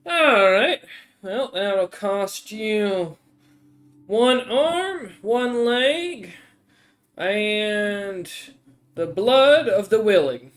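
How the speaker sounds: lightly voiced troll lady naming a grim price; a hint of a menacing shopkeeper, slow and drawn out; troll merchant. Troll lady quoting a grim price to the adventurers. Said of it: "kinda nods and goes".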